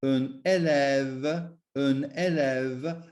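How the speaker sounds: "élève" with short é, then a long open è. Shown as a demonstration. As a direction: say "élève" slowly, short first vowel and open second. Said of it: "which makes it an E sound".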